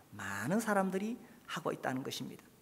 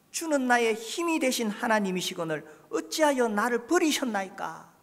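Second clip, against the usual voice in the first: psalmist's lament; 6 semitones higher, 4 dB louder than usual. Acted. Psalmist's cry, repeated higher.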